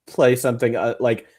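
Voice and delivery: playing the piano, she reasons about Bach, mock nervous; mock worried character. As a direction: act out her nervous logic loudly. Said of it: "She's like".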